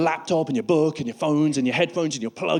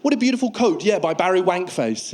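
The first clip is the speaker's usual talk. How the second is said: admiring gush; 3 semitones higher than usual. Retold or imitated. Fashion week spectators.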